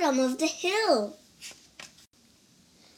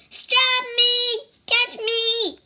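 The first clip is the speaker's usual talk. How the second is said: high, loud squeaky worm cry; child voicing a frantic little worm; 11 semitones higher, 9 dB louder, slower than usual. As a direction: yell for help as a tiny panicked worm. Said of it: "cried the worm".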